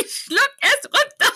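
high, slow, hammed-up yell; mock shouting. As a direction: bellow the order, laughing. Acting scene, repeated order.

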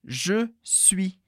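slow, careful je suis; teacher modelling "je suis" slowly, quietly. Shown as a demonstration. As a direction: say "je suis" syllable by syllable. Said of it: "Repete bem devagar".

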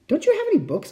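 lightly voiced hopeful boy; small boy voice. Boy asking, voiced higher.

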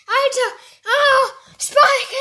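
loud, high laugh-sobbing with joy; overwhelmed, half laughing half crying. Real, not acted. Lacht und weint vor Freude. (lachend und weinend vor Freude)

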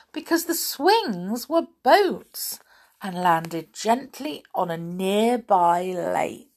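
animated narration with lightly acted dialogue; children's story reading. A narrator's reading. Reader tells children of the lake landing, animated storytelling. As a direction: read it expressively to children.

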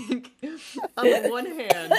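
laughing while choking on spit; coughing through the words. Real, not acted. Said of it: "I'm choking on my own spit".

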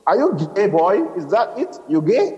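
high-pitched, suspicious interrogation; accusing questioning. A narrator's reading. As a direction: press him with the question. Father interrogates son accusingly.

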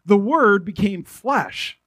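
slow, weighty reading of the verse; solemn statement. Shown as a demonstration. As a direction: lay each word down slowly. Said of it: "It's like, what?".

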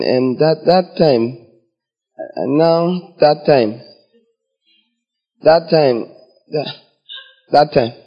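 halting, with long gaps between repeats; stalling repetition. Acted. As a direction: stall for time, stuck on the same phrase. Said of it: "Have you finished saying that time?".

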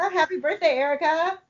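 sing-song birthday greeting; singsong birthday greeting. Acted. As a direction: lilt it up playfully. Host sings out birthday wish.

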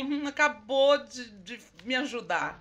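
slow, savoured mock retort; relishing retort. Guest answering someone who doubted her, relishing retort. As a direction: draw it out with relish. Quotes own answer to challenge.

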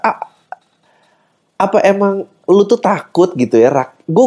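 ordinary talk

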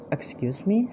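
a touch of indignant fairy, voice jumping up; in a huff. A narrator's reading. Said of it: "in a huff".

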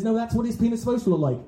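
quick, brisk doctor. Retold or imitated. Doctor reassuring a shocked parent, quick and brisk. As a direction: rattle it off like a busy doctor. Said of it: "the doctor says".

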